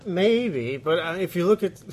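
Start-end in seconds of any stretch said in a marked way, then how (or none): 0.0-0.8 higher, drawn-out "Maybe"; odd drawn-out maybe. Real, not acted. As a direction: stretch out a doubtful maybe, pitched up. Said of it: "I don't know why I said it like that".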